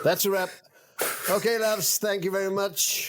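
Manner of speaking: high-pitched luvvie director; director calling wrap. Acted. Director dismissing cast and crew, high theatrical call. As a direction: call it out high, thanking the loves slowly. Plays floor director ending shoot.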